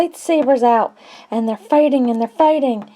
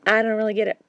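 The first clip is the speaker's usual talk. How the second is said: ordinary talk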